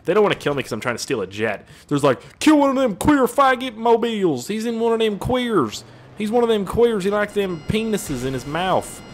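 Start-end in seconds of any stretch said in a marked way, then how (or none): 2.4-9.0 high-pitched, drawn-out mob jeer; mock bigoted pursuers. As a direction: call it out slow and high, mocking the attackers. Mimics hostile pursuers jeering.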